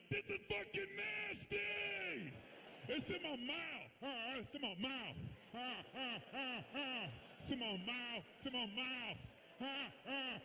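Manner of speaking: put-on gagging baby, grossed out; disgusted newborn. Gay baby on the way out, hammed-up disgust. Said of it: "they was like".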